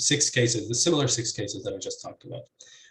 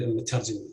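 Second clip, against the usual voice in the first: مترجمين stressed on its first heavy syllable after the initial one; stress on first heavy non-initial syllable; much faster than usual. Shown as a demonstration. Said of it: "So you could hear stress".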